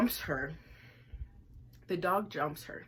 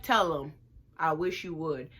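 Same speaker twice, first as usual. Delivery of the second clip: defiant dare; 4 dB louder than usual. Retold or imitated. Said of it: "I'm like".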